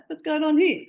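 high, loud astonished question; surprised exclaim. Retold or imitated. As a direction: gasp it out, amazed. Client arrives in miniskirt.

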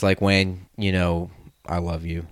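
sincere. Real, not acted. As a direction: drop the voice and mean it. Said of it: "in all seriousness".

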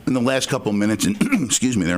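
throat catching, clearing it mid-sentence; choking. Real, not acted. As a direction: talk through a choke and throat clear. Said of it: "I'm choking".

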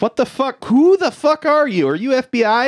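imitating a flabbergasted man, pitched high; incredulous demand. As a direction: demand to know, voice jumping way up. Man confronts unknown agent.

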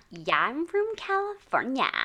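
put-on West Coast accent. She skilfully copies the West Coast accent. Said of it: "Wow, she's really good".

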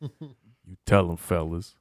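mock movie tough guy softening; imitated encouragement. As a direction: say it slowly, trailing low. Quotes film character's slow encouragement.

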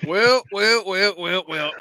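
loud gloating well well; smug, drawn-out taunt. Acted. Gloating entrance.

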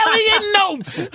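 high, slow, delighted repeat; excited laughing echo. Real, not acted. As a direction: savour the silly title. Repeating the joke title.

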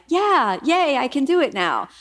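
high, bright-eyed mock cheer; a playful, hammed-up little yay; excited cheer. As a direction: cheer yourself on like a kid. Cheering herself on.

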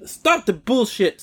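slow, exasperated demand; angry demand. Real, not acted. Ranting at companies that sugarcoat, slow exasperated demand. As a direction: draw it out, fed up.

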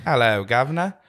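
English accent slipping toward New Zealand; botched English accent. Shown as a demonstration. Co-host failing to copy host's English, New Zealand-tinged accent. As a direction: try Cockney, land half in New Zealand. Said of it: "It sounded kinda New Zealand".

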